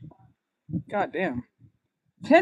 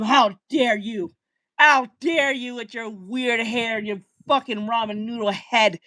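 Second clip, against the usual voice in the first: shaking with anger; slower than usual. Acted. Mock rage at anime take.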